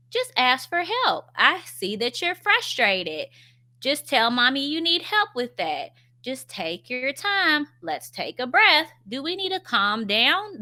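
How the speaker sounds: acted gentle-mommy voice, lilting upward; gentle parenting. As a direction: coax an upset little child gently. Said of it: "part of gentle parenting".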